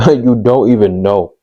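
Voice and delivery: laughing through the words. Real, not acted. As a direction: chuckle while saying it, amused. Laughs recalling kids yelling back.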